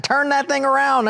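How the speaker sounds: high-pitched, urgent half-shout at the wife; retold frantic order. Husband at the wheel snapping at his navigator wife, high and urgent. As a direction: push her to turn the map around.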